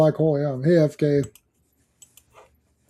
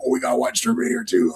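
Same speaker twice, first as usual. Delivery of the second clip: put-on higher, airy girlish voice; imitating young employees; 8 semitones higher, 6 dB quieter than usual. Boss imitating his young employees begging, higher and eager. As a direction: mimic the excited young staff. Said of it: "They're like".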